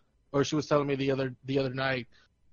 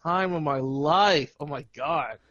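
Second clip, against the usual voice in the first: sarcastic. Real, not acted. Boyfriend gushing to a friend about his relationship, sarcastic. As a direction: feign being thrilled, laying on the sarcasm. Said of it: "say it so sarcastically".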